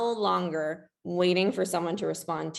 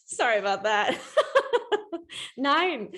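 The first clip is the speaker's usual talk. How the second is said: joking German; 7 semitones higher than usual. Pretend. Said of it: "I definitely am German".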